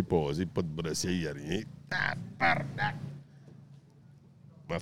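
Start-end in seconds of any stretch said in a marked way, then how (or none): 1.9-3.0 drawn-out stunned curse; slow amazed swear. Retold or imitated. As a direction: stretch it out in disbelief. Seeing topless woman on beach.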